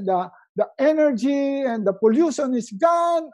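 hammed-up morning delight; joyful wake-up. Shown as a demonstration. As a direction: greet the day with over-the-top joy. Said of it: "I want you to say".

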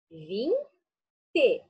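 "Vinte" drawn out slowly to show its two syllables; "Vinte" said long and slow, teacher counting syllables; stretched for syllables. Shown as a demonstration. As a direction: stretch out "Vinte" so the children hear each syllable. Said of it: "Duas sílabas".

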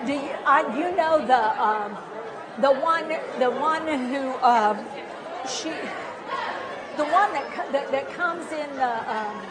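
halting, lightly voiced dementia groping; acting a person with dementia stuck on a word; struggling for words. Shown as a demonstration. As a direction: lose the noun mid-sentence. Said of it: "you can do it to me".

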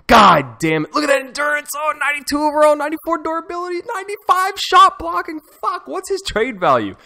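high, loud shouting at each stat; ecstatic shouting. Real, not acted. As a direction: shout the numbers in pure amazement. Raving over the player's stats.

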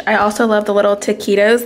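taquitos said the Spanish way, tee-kee-dose; Spanish-style taquitos with rolled vowels; Spanish pronunciation. Real, not acted. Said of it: "Why am I speaking like that?".

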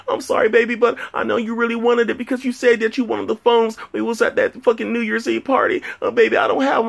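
very high, pleading falsetto impression; girlfriend voice. Girlfriend apologizing for missing the shoe release, mock falsetto voice. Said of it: "She's like".

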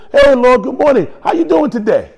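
high, loud, breezy hello; cheery greeting. Retold or imitated. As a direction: call out brightly to a friend in the kitchen. Casual cheerful greeting to God.

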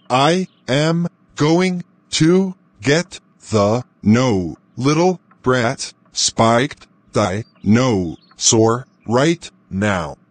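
slow, even robot voice; menacing machine voice. Pretend. Dad turned into a robot.

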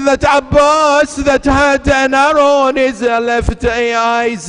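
slow, mournful lament, easing down; Zainab's lament. Acted. Zainab tells the Prophet of Abbas and the infant, slow lament. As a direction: let the grief drag each phrase.

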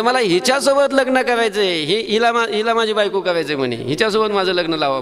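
a hint of a boy's stubborn plea; child Krishna insisting. Krishna telling the cowherds he will marry the old woman, lightly childlike. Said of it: "आणि सांगितलं".

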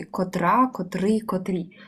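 котра, котрий, котрі, each with the stress on the second syllable. Shown as a demonstration. Teacher drilling the stress of котрий forms for a class. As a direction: tick through котра, котрий, котрі, leaning on the ending. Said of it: "завжди наголос на другий склад".

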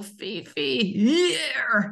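barked order, rising at the end; a mild mock military command to the dog; military call. Shown as a demonstration. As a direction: shout it like a drill sergeant. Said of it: "gaan we ineens heel militair hier roepen".

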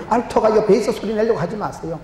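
ordinary delivery

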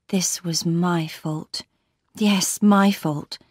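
slow, heavy self-reproach; remorseful. Acted. Marion blames herself for Laura's marriage, slow and remorseful. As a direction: take the blame slowly, leaning on MY.

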